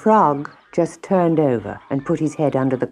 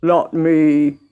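groaning; 4 dB louder than usual. Acted. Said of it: "groaned the Frog".

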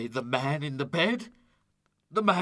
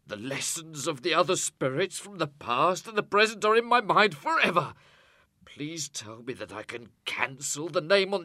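high, frantic vows, dipping then rising loud; wailing, urgent promises; desperate pleading; 6 dB louder than usual. A narrator's reading. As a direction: beg for one more chance in tears. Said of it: "he cries desperately".

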